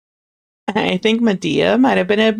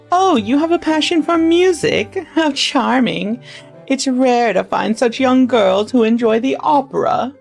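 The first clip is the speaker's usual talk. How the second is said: put-on old lady voice; 6 semitones higher than usual. Lady Whittier voiced in story.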